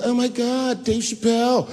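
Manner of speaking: high, excited fan gush; mock fan gush. Starstruck woman at the club spotting the comedian, high excited gush.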